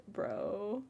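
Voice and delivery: a hint of a southern accent. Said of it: "I don't know why I went southern there".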